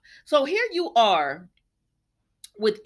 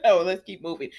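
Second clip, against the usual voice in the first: "Oh, let's keep moving" said out, louder and brisk; brisk louder move-on; 3 semitones lower, 4 dB louder than usual. Real, not acted. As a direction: shake off the laugh and push on. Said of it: "moving on after laughing".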